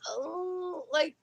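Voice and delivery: high, worried fish-owner voice; mock fretful. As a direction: fret in a high little voice. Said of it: "and we were like".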